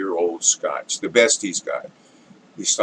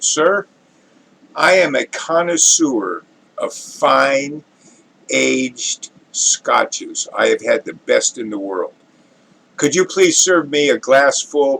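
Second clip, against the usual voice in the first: lightly posh, slow and drawn-out gentleman, ending in a hush; distinguished gentleman; 2 semitones higher, slower than usual. Acted. Gentleman to bartender, slow lightly haughty request. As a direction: play the snooty connoisseur savouring each word. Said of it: "the very distinguished gentleman".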